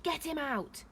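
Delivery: a moderate yell of command; yelled order. A narrator's reading. Leela to a man at the house, yelled order. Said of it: "she yelled at a man".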